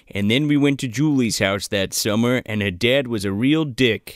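low, wistful voice-over parody; lightly imitated nostalgic narrator; Daniel Stern. Narrator recalls Julie's house that summer, mock nostalgic voice-over. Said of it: "Daniel Stern starts narrating, and he's like".

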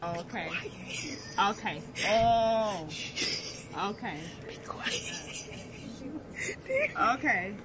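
slurred and drowsy; drugged and sleepy after surgery; groggy from anesthesia. Real, not acted. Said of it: "it's the, the anesthesia".

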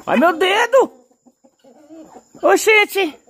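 high, loud cry of pain; pained yelp. Real, not acted. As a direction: yelp as the finger gets pecked. Bird pecks his finger.

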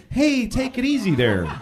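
polite request. Retold or imitated. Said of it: "I said".

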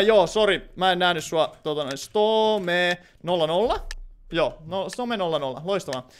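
usual speaking voice

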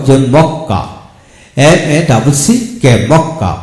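মক্কা with a held double ক; demo pronunciation. Shown as a demonstration. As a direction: drill the word মক্কা, stressing the doubled ক. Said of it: "যেমন double C". (মক্কা শব্দে দ্বিত্ব ক জোর দিয়ে)

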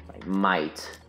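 "might" set apart and drawn out; stress on MIGHT. Real, not acted. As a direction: lean on the word "might". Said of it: "Emphasis on might".

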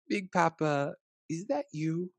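a curious small grandchild asking; lightly voiced child; child's voice. A narrator's reading. Child voice in story.

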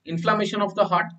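slow, word-by-word definition; slow dictation. Shown as a demonstration. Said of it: "क्या बोलेंगे?".

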